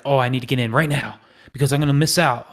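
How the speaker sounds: fast, rushed fear of missing out; frantic. Retold or imitated. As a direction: blurt it like you're about to miss the trade. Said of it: "It shouldn't be like this frantic".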